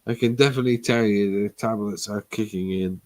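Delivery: stumbling, slurring repeats; words smeared and halting; slurred speech. Real, not acted. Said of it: "Yeah, even we can tell".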